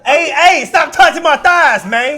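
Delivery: laughing while being tickled. Real, not acted. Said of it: "I'm ticklish".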